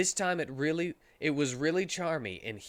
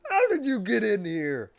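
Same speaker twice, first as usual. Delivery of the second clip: higher, louder angry demand; shouted; 8 semitones higher, 7 dB louder than usual. Acted. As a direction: yell it across the room. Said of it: "shouted Vector".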